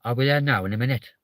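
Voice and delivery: lightly put-on Welsh lilt, rising at the end; attempted Welsh accent. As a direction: try a mild Welsh accent. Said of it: "I can't do the Welsh accent".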